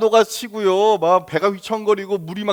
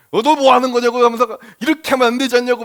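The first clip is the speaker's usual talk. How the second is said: mock angry scolding; 2 semitones higher than usual. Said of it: "머리에 화가 가득 차 올라가지고".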